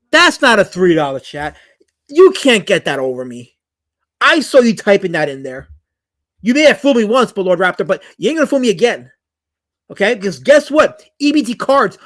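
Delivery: loud, indignant call-out of the chatter. Real, not acted. Streamer calls out Lord Raptor's fake three dollar chat, loudly indignant.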